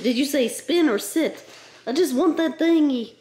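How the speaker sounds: pleading pet voice; whiny dog begging for a treat. Acted.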